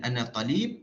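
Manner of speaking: "ana talib" in Malay Arabic, short "ta" and rising "lib"; Malay intonation. Shown as a demonstration. Teacher names tanghim Melayui, Malay-accented "ana talib". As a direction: say "ana talib" with a Malay lilt, no long stressed "ta". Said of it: "itu tanghim Melayui".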